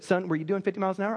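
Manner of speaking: quick, gentle question, lightly voiced as the judge; very loving. Judge gently questions the young speeder, very loving. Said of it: "very lovingly said".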